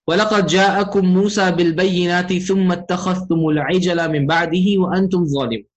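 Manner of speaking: quick recited Arabic verse; brisk tajweed-style recital; Quran recitation. Shown as a demonstration. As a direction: run through the ayah in recitation cadence. Teacher recites the ayah.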